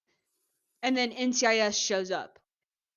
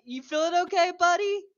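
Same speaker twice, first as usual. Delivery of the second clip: mocking concern; 7 semitones higher, 5 dB louder than usual. Suspect mocking staggering Gibbs.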